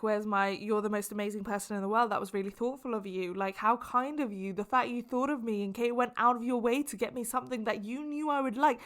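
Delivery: mock the thank-you she wanted, hamming up the end; gushing exaggeration. Imitating the thank-you she wanted, a light gush. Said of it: "I'm exaggerating it a little bit".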